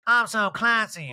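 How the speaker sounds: high, slow mock-grand voice; affected impression of showing off. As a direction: draw it out with fake elegance. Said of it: "those fake old talking heads".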